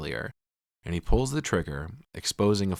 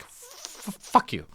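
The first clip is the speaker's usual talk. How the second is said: unconvincing; 4 semitones higher, 3 dB quieter, much slower than usual. Retold or imitated. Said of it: "most unconvincing and inexperienced "fuck you".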